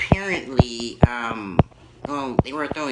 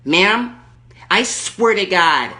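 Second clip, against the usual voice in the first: Erkenbacher. Acted. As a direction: play the furious entitled lady on the phone. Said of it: "Erkenbacher calling back".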